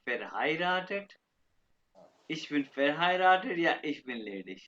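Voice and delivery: verheiratet, spelled out slowly for students; slow German. Shown as a demonstration. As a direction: ich bin verheiratet या ich bin ledig, each syllable slow. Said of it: "ये है married". (धीरे-धीरे German उच्चारण)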